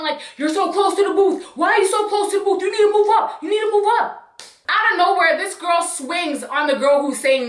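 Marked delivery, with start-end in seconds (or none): 0.4-4.2 mock yelling. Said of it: "She's just yelling".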